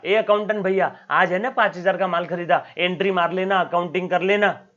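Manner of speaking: calling out to accountant. Retold or imitated. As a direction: hail the accountant loudly. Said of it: "accountant को मैंने जाके बोल दिया".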